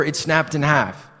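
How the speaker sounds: casual lie told with a straight face; confident fake excuse. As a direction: glib cover story, said easily. Confident lie about the sign.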